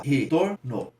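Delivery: "retorno" slowly broken into re, tor, no; syllable by syllable. Shown as a demonstration. Teacher separating an example word, syllable by syllable. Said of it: "Vamos lá".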